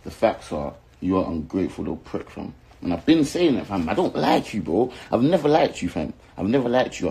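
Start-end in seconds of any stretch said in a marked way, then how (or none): 2.8-7.1 heated, higher-pitched outburst; real irritation, pitched up; angry rant. Real, not acted. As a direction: tell a rival off, voice rising in real annoyance. Angry rant at rival artist.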